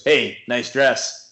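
lightly voiced catcalling big guy; slow, mildly pushy come-on; retold catcall.

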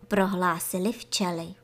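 usual speaking voice

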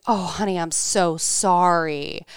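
imitating a sympathetic pool worker, slow. Pool worker hearing of lost rings, sympathetic. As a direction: draw out the apology with tender concern. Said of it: "demeanor immediately changed".

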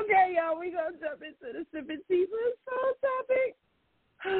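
pushing words out through real crying; getting emotional. Real, not acted. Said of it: "I'm getting emotional".

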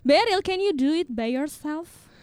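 slow, stern teacher English; slow teacher scolding. Acted. Teacher acts out scolding a student who is messing about. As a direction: scold the student slowly and pointedly. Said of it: "omelin kita berdua".

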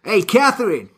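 a hint of a nagging coworker; mock coworker. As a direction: tease her about her boning. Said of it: "someone would be like".

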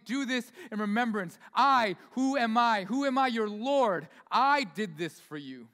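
a mild voicing of Jesus; Jesus speaking. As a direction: let Jesus declare who he is. Preacher voicing Jesus, rising.

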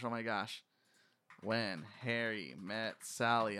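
ordinary delivery

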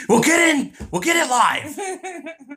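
high, slow laughing words. Real, not acted. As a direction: laugh through the joke. Laughing joke.

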